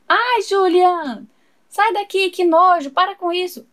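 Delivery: disgusted. Acted. Sister disgusted, shoos Julian.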